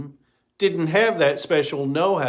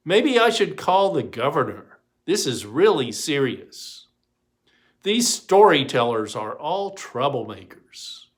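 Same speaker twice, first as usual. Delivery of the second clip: exasperated muttering; 3 dB louder than usual. Acted. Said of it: "muttering as he walked along".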